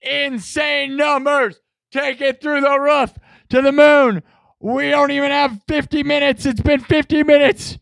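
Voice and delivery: high-pitched, shouted hype; hyped celebration. Real, not acted. Streamer celebrating two hundred thumbs up, hyped. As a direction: call it out big and high to the crowd.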